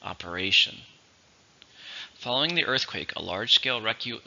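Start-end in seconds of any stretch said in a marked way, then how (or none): 0.0-0.8 "operation" with the stress on RA; stress on third syllable. Shown as a demonstration. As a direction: say operation as op-er-A-tion. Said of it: "stress on the third".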